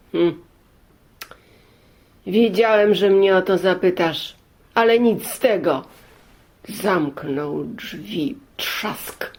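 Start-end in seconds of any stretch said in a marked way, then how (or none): 0.1-5.8 głośno i stanowczo, drzwi przed nosem; głośna odmowa. Acted. Gospodarz odmawia pielgrzymowi. 8.6-9.3 naśladowany szeptem odgłos trzaśnięcia; szeptany trzask drzwi. Retold or imitated.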